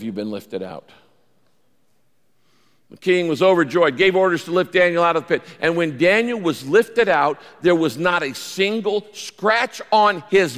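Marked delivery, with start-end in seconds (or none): 2.9-8.0 brighter, louder, quicker retelling; overjoyed reread. Shown as a demonstration. Pastor rereads to rouse his flock, overjoyed energy. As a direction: lift the verse and make the joy felt.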